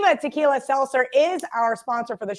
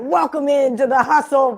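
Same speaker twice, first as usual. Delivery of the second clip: a light stab at a podcast host's welcome; Drew Martin voice; 5 dB louder than usual. Retold or imitated. Host filling in for Drew, mock-imitating his intro. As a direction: announce it like the regular host, loosely. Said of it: "I don't have a good Drew Martin voice".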